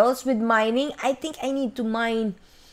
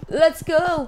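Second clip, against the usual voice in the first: pumped let's go; 7 semitones higher than usual. Acted. Hyping herself up.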